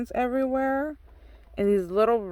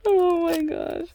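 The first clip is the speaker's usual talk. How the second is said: excited squeal; 7 semitones higher than usual. Real, not acted. Gushing over a card.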